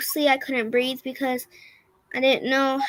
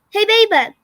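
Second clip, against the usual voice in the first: cheerful mom; 7 semitones higher, 7 dB louder than usual. Retold or imitated. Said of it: "And she's like".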